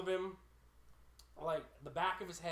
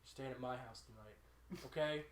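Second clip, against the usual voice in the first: imitated drunk murmur; 5 semitones lower, 9 dB quieter than usual. Drunk friend grabs her, murmurs.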